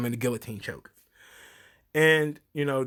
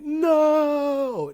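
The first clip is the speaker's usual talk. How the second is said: movie-style no; 13 semitones higher, 4 dB louder than usual. Retold or imitated. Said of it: "he was like".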